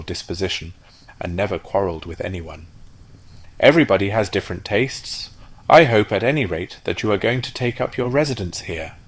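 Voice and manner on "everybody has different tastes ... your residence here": louder, higher, friendly duck; peaceable duck. Acted. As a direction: keep the peace kindly. Peaceable duck smooths things over.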